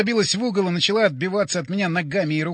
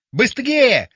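loud, higher strained yell; straining shout; 6 semitones higher, 6 dB louder than usual. A narrator's reading. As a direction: shout yourself hoarse urging speed. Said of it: "надрывался Боря".

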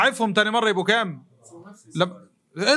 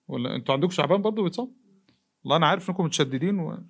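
mocking doubter voice; 4 semitones lower than usual. Voicing a doubting listener.

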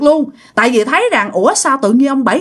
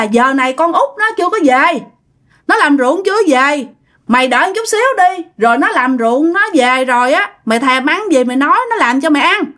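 slightly raised voice to a neighbour; calling across; 3 semitones higher than usual. Acted. Older brother answering from his hammock, calling over. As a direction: answer across the yard, only mildly lifted. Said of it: "ông Năm mới nói vọng qua để trả lời".

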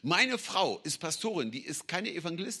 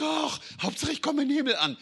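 complacent Christian; 10 semitones higher, 4 dB louder, faster than usual. Retold or imitated. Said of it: "Manch ein Christ".

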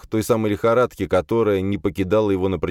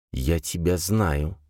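echoing voice; slower than usual. Acted. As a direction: let the words echo slowly. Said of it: "Отголовки слов заметались".

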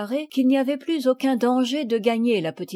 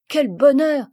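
joyful exclamation; 4 semitones higher, 7 dB louder than usual. A narrator's reading. Madeleine rejoices at good news.

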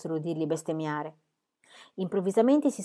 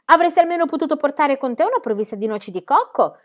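raised, loud complaint; shouted reproach; 6 semitones higher, 5 dB louder than usual. A narrator's reading. Pippi calling after falling Book, shouted reproach. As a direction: call reproachfully after someone. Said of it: "gli gridò dietro".

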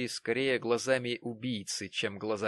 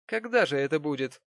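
louder, insistent repeat; pushy Jonas; 5 semitones higher, 5 dB louder than usual. A narrator's reading. Jonas insists on a wedding date. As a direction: press the question again.

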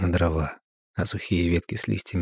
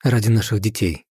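forced out through tears; 4 semitones higher, 4 dB louder than usual. Acted. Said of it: "выдавила из себя".

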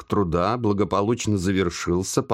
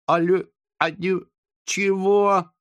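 high startled confused question; frightened girl, much higher; 10 semitones higher than usual. A narrator's reading. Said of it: "испуганно спросила она".

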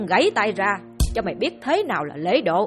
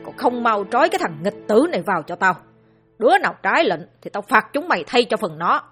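shouting; 3 semitones higher, 3 dB louder than usual. Acted. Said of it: "Lão lại một lần nữa hét lên".

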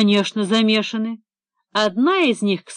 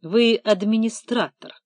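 dry. Acted. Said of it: "сухо поправил его Эдик".

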